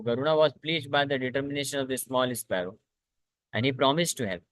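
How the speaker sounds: very slow, measured reading of the story; slow scripture reading. A narrator's reading. Teacher reading a scripture story to the class, slow and measured. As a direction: read each phrase slowly and deliberately to the class.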